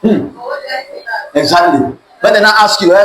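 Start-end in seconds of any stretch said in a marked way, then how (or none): 0.0-1.4 a vague, distracted hmm as if only pretending to listen; absent-minded hum. Shown as a demonstration. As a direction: hum along without really hearing. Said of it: "You can do like this".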